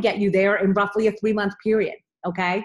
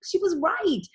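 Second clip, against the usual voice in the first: whisper; 10 semitones higher than usual. Real, not acted. Confiding aside about upline.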